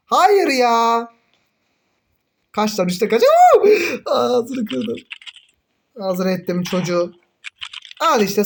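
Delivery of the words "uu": sudden high whoop, louder; excited whoop. Real, not acted. Gamer whooping during a close fight. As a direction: let out a thrilled high cry.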